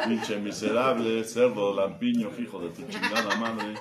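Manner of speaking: slow, loud laughing insults; loud mocking insults. Real, not acted. Ribbing the stingy husband, loud and laughing.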